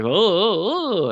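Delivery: high, frightened little oh-oh-oh; scared yelps. Retold or imitated. The nerd, cornered by the landlady, yelps in fright. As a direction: yelp like a startled nerd. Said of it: "And he's like".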